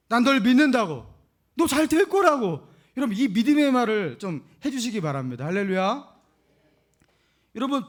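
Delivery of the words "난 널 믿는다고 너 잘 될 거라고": encouraging parent. Acted. Preacher models encouraging words.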